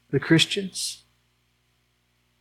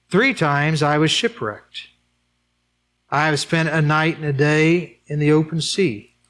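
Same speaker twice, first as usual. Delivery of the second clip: scripture reading. Acted. Continues Paul's list slowly.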